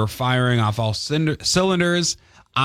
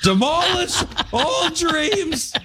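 dramatic voice; much slower than usual. Acted. Mock dramatic doom after loss.

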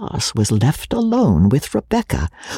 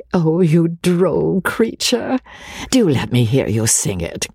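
coaxing flatterer; 6 semitones higher than usual. Acted. Rebecca flatters and coaxes Joseph.

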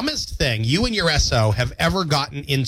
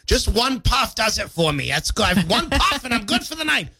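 stoner voice; 9 semitones higher than usual. Acted. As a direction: play a laid-back stoner. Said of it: "talking about marijuana".

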